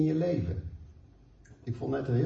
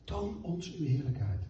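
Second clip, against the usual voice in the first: softer, an inward plea; soft repeat; 6 dB quieter than usual. Acted. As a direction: let the prayer sink down to a hush. (zachter herhaald, als een stil gebed)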